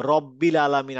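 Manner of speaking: রব্বিল with a short rounded ro, not raa. Shown as a demonstration. Teacher showing the correct Quranic reading, round ro. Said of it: "আমি বলবো না রাব্বিল আলামিন".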